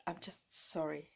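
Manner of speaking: a sheepish little whispered sorry. Real, not acted. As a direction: whisper it, just breath, no voice. Whispered apology to camera.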